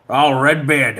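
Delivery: mock Scottish film-star voice; Sean Connery. Streamer greeting a chatter, putting on Scottish actor voice. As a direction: play the Scottish movie legend. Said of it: "I'm just gonna talk like Sean Connery".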